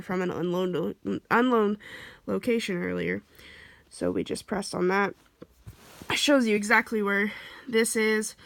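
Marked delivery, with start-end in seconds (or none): 6.1-8.3 talking with short, shallow breaths; audibly breathy, short of air; shallow breathing. Real, not acted. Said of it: "I'm so sorry about my breathing".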